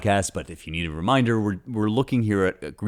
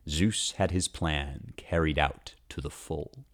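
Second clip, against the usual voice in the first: slow hushed final line; whispered; 2 semitones lower, 7 dB quieter than usual. Shown as a demonstration. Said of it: "Here's my translation".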